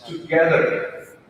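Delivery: "together" with GE stretched out and stressed; slow "together", weight on the middle syllable; stress on second syllable. Shown as a demonstration. Coach showing word stress to learners, stressed second syllable in "together". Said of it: "the second part is stressed".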